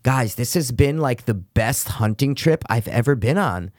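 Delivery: lightly put-on effeminate speech, low-pitched; a hint of stereotyped gay delivery; imitated gay voice. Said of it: "they sound gay".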